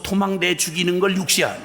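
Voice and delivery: a short outraged shout; exclaiming. Real, not acted. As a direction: burst out on 육시한 in sudden indignation. Learning the curse's meaning. (욱하고 외치듯)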